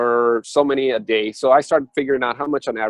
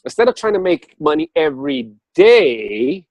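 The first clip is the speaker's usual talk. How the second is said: universe advising; 3 semitones higher, 4 dB louder than usual. Retold or imitated. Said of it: "And say".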